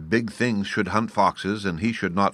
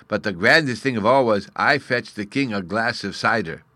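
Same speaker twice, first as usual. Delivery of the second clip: lightly voiced child, louder; little fairy boy, proud; 3 semitones higher, 5 dB louder than usual. Bruno boasts of serving the king, proud little fairy. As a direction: boast with a small boy's pride.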